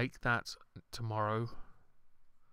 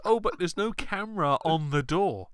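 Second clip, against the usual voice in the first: mock panic; 8 semitones higher, 6 dB louder than usual. Mocking ghost show crew's reaction.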